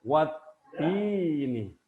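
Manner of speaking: "Wat ini" as wattini, stopped t then long ii; demonstrated correct reading. Shown as a demonstration. Teacher answers own question, "Wat ini" with silent lam. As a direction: hold the doubled t, then stretch the vowel in "Wat ini". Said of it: "Dibacanya gimana?".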